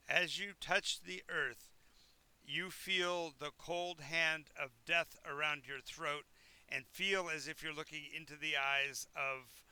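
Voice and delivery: slow, deliberate scene narration; measured storyteller's delivery; game master's scene setting. Acted. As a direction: narrate the eerie moment slowly, stressing key words.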